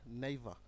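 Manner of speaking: নেইভা said with no r, ending in a soft আ; British never. Shown as a demonstration. Teacher showing students the British never without r. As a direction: drop the r in নেইভা. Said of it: "ওরা কি বলবে?".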